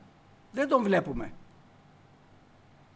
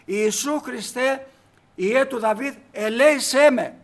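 slower, louder retold plea, drawn out; crying out louder; 3 semitones higher, 7 dB louder, slower than usual. Blind man shouting louder though the crowd hushes him. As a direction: call him again, harder and slower. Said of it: "Αυτός φώναζε δυνατότερα".

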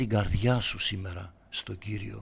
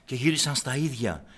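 ordinary talk

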